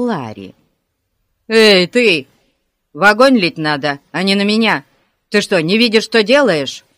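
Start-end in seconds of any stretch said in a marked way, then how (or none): 1.5-6.8 loud, angry scolding; indignant yell. A narrator's reading. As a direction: yell at whoever just soaked you. Облитый Ларри ругает мальчишку. (возмущённый крик)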